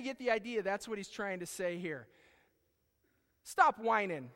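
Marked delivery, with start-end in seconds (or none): 3.4-4.3 impatient rebuke. Retold or imitated. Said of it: "he's saying".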